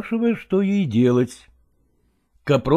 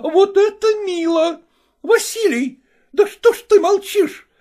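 shouted. Acted. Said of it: "кричала Копровская Лагорскому".

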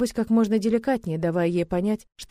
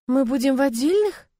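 higher, rising surprised question on «отдельных»; 6 semitones higher, 4 dB louder than usual. Acted. Young bride to husband, surprised rising question. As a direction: let «отдельных» climb up in disbelief.

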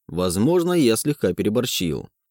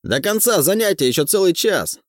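shouting; 8 semitones higher than usual. A narrator's reading. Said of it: "кричит студентам".

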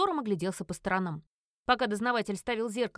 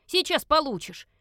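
slow, louder warning; slow menacing snap, louder; threat; 5 semitones higher, 6 dB louder than usual. Acted. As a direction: threaten the howling pet. Threat to noisy pet.

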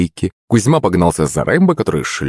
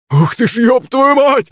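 terrified yell. A narrator's reading. Drunk flees the growing monster, terrified yell. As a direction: shriek as you bolt. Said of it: "заорал Щербатый".

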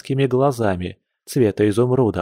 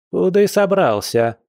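stern granny's question, pitched high; stern demand; 8 semitones higher than usual. A narrator's reading. Grandma challenges the man walking out, stern and high. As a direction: demand it strictly, jumping up in pitch. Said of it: "громко и строго спросила бабуля".

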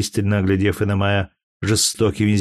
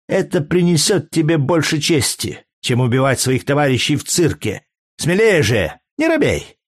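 higher woman's voice, jeering and daring him to strike; mocking taunt; 4 semitones higher than usual. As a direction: goad him with scorn. Courtesan taunting the gladiator. (насмешливый вызов)

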